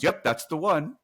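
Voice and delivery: high, loud mock confirmation; imitated delivery guy. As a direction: play the worker confirming it emphatically. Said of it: "And the guy goes".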